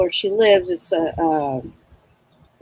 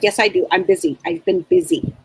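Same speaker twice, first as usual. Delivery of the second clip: abrupt grandmother. Retold or imitated. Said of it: "So that's exactly how she talks".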